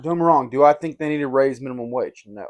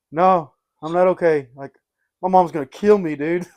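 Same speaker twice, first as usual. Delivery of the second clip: raised, louder, slowed panicky protest; panicked teen; 4 semitones higher, 5 dB louder than usual. Retold or imitated. Teen to the truck driver after wrecking mom's car, panicky. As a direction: blurt it out like a scared kid who wrecked mom's car.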